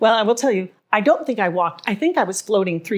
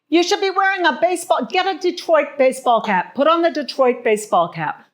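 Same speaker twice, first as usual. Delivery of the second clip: insistent higher-pitched saleswoman, lightly imitated; urging shop clerk; 7 semitones higher, 3 dB louder than usual. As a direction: mimic a pushy counter clerk's urging. Shop woman urging her to buy cap.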